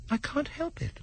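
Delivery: high, soft and meek; Alice answering the Dormouse meekly. Acted. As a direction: apologise meekly, shrinking back. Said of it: "said Alice very meekly".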